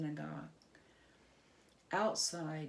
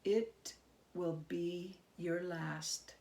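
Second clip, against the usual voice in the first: menacing goblin king; 2 semitones lower than usual. Acted. Goblin king threatens Herschel.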